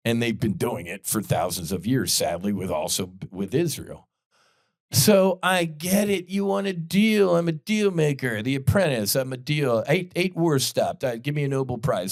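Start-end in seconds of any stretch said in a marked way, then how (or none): 4.9-12.1 mock Trump. Mocking Trump's bragging.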